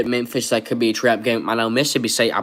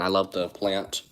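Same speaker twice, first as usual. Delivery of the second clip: whisper; 2 semitones lower, 6 dB quieter than usual. Real, not acted. Aside about his planting channel.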